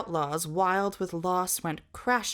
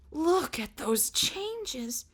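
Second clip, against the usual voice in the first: awed; 7 semitones higher, much slower than usual. A narrator's reading. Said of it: "His voice was as naked as a baby bird".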